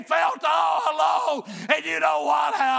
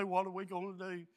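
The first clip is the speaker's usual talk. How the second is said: hushed wife's plea; 7 semitones lower, 15 dB quieter, faster than usual. Retold or imitated. Wife's tearful words retold softly.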